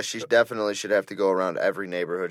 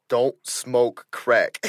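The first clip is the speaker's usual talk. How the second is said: LT in Waterboy; 2 semitones higher, much slower than usual. Retold or imitated. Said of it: "Waterboy, where he's like".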